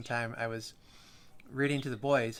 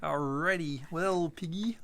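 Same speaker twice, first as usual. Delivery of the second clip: puppet voice; 4 semitones higher, slower than usual. Pretend. Continuing the puppet bit.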